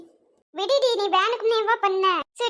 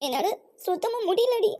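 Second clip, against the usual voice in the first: crying. Acted. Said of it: "Tara, please அழாத".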